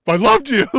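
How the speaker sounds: loud, high, wailing I loved you; mock heartbroken cry. Heyman losing it, wailing at Roman. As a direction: wail it like a jilted lover. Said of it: "Paul Heyman losing it".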